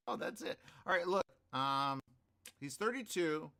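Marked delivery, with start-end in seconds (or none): 0.1-0.6 whispered retort. Retold or imitated. Retold reply to someone.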